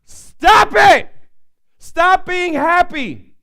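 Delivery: high, loud, slow furious scolding; an elderly woman screaming at a happy boy; a hammed-up shout at the kid; angry old woman yelling. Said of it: "and she goes".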